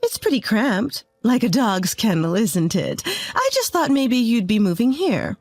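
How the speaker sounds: sweet on top, barbed underneath; cheerful mother-in-law. Retold or imitated. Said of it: "Her voice was cheerful".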